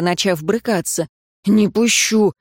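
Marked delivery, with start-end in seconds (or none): 1.5-2.3 a short, stubborn retort; snap back. Acted. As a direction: refuse her flatly. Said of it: "огрызнулся Риан".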